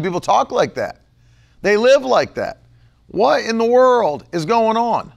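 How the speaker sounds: ordinary talk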